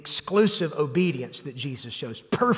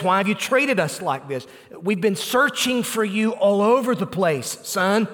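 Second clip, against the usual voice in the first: lightly voiced worried mother, a bit higher and louder; exasperated worried mother; 4 semitones higher, 4 dB louder than usual. Preacher voicing Mary after searching everywhere, exasperated. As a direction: plead and scold at once. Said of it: "She says".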